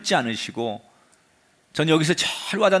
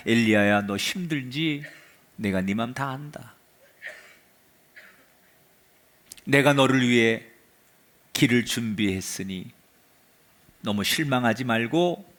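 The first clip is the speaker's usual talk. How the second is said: gentle comfort; 6 semitones lower than usual. Acted. God speaking tenderly to exhausted Elijah. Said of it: "하나님께서 오늘 칠 절에 뭐라고 말하느냐".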